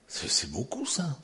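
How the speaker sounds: soft whispered awe. Acted. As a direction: hush it to the congregation. Whispered emphasis. (chuchoté avec insistance)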